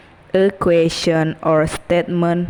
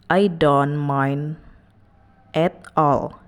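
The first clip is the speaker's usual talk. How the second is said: slow explanation; 2 semitones lower, slower than usual. Shown as a demonstration. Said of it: "It means".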